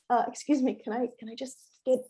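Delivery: high, timid, halting request to an elder; a kid politely interrupting her elders, unsure; hesitant polite asking. Retold or imitated. Caribbean kid hesitantly asking two elder women in line, timid and high.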